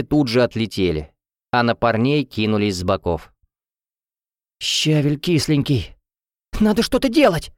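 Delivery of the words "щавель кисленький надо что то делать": high-pitched panicky wail; squeal, climbing higher as panic grows; panicked squeal. A narrator's reading. Luneya amid the brawl, squealing. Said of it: "визжала Люнея".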